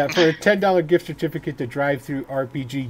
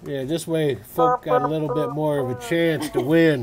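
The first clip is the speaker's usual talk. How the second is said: put-on cowboy accent. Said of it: "doing this in the accent".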